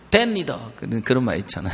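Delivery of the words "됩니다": "됩니다" in a Gyeongsang-Gangwon country accent. Shown as a demonstration. Preacher shows how the mother talks, in Gyeongsang-Gangwon accent. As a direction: drop "됩니다" with a light Gyeongsang-Gangwon lilt. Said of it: "경상도하고 약간 강원도하고 섞인".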